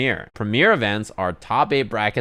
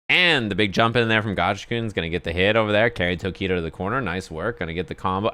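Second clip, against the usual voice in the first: fast, clipped fight commentary; live play-by-play; faster than usual. Shown as a demonstration. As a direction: call the match like a live caster. Imitates his play-by-play commentary.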